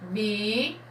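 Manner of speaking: Bíblia split as BI, then BLIA; syllable by syllable. Shown as a demonstration. Teacher showing children that B and I go together, syllable by syllable. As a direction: say Bíblia in two separated, held syllables. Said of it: "Eu falo o I junto com o B".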